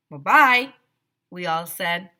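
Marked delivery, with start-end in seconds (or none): 0.1-0.7 put-on bright loud kids' farewell; loud chorus goodbye. Kids calling bye to the principal, loud. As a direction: call out bye together.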